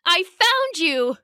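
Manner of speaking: high, drawn-out happy exclamation; joyful reunion. A narrator's reading. Goen pouncing on his lost friend Koma, overjoyed. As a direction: exclaim with delight, stretching the words.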